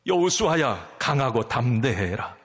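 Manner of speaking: God commanding Joshua, strong and loud. Acted. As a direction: proclaim it as God's order to Joshua. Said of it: "하나님께서 여호수아에게 말씀해 주세요".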